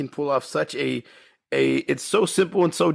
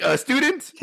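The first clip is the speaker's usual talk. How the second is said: mock sheepish; 9 semitones higher than usual. Harvey Korman quote, high pitch.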